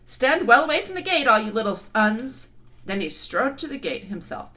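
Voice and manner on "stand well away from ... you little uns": loud booming giant warning; big giant shouting down; dim giant cyclops. Acted. Giant warns crowd.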